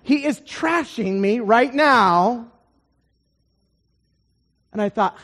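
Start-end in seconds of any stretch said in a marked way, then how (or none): 0.0-2.5 incredulous, slowing on the complaint; amused disbelief. Retold or imitated. Preacher overhearing his seatmate trash him, incredulous. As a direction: marvel in disbelief at being trashed. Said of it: "I'm actually laughing. I'm like".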